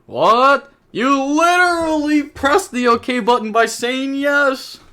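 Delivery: high, loud, incredulous outburst; stunned he even pressed it, voice flying up; exasperated disbelief. Real, not acted. Disbelief at opponent's ruling.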